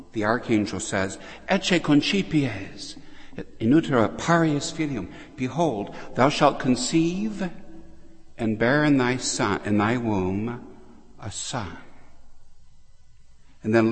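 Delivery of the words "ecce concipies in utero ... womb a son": a herald angel announcing, raised voice; Gabriel's announcement. Acted. Preacher voicing the archangel to Mary, ringing proclamation.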